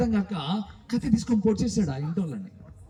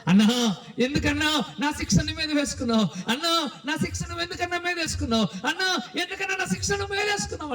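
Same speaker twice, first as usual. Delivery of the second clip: crying; 7 semitones higher than usual. Acted. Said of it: "అని ఏడుస్తూ".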